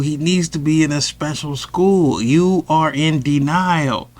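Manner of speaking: slow, high, preachy school lady; stern teacher. Retold or imitated. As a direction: lay it out slowly like a stern teacher. Teacher stopping the meeting.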